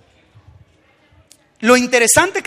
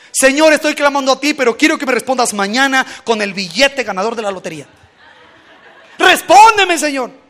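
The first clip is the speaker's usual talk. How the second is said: mock demanding prayer; 5 dB louder than usual. Mock greedy prayer for lottery.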